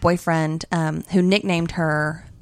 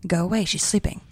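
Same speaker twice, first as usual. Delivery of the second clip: protective cat; 5 dB quieter, faster than usual. Retold or imitated. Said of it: "looks at me and just goes".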